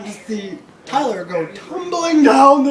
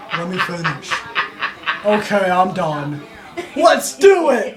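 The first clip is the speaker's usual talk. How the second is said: hammed-up excited shout; eager rallying cry; 3 semitones lower than usual. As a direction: stretch it into a big gung-ho yell. Ben finishes, joins eagerly.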